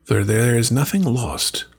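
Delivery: put-on slow, measured recitation of an old verse; solemn verse reading. Host reading the witch's proverb, slow and solemn. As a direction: let each line settle, unhurried.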